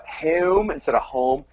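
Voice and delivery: South Jersey "home" with a rounded vowel; Philadelphia-area "home"; South Jersey accent. Shown as a demonstration. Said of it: "key words here to listen for".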